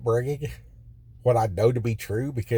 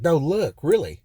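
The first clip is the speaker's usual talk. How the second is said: higher, louder, pressing urgency; insistent disbelief; 5 semitones higher, 4 dB louder than usual. Retold or imitated. Inmate insisting to his cellmate, higher and louder. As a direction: make him see it, really push.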